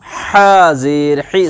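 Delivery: हा and ही with h from the middle of the throat; breathy Arabic pharyngeal h in हा, ही; throaty h. Shown as a demonstration. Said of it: "center of the throat से".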